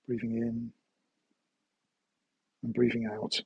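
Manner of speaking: calm, measured guided-meditation voice. Acted. Meditation teacher guiding listeners through a body scan, calm guided meditation. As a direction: guide them gently through a body scan, leaving long pauses.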